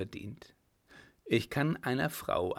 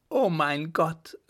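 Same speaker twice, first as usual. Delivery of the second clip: a slow, higher, louder "Oh mein Gott"; horrified cry; 6 semitones higher, 5 dB louder, slower than usual. A narrator's reading. Widow realising she is ruined, horrified cry. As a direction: cry out in dismay. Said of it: "rief sie".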